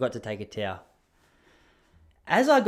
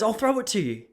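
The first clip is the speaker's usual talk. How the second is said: postman's offer; 8 semitones higher than usual. Retold or imitated. Postman offers to throw parcel.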